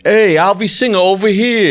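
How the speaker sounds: pushy fan. Retold or imitated. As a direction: holler like an eager stranger on the street. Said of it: "the guy's like".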